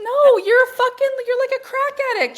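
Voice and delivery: high, loud, drawn-out tirade; loud exasperated confrontation. Acted. Coach confronting clients hooked on stress, loud and exasperated. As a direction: hammer each word in acted disbelief.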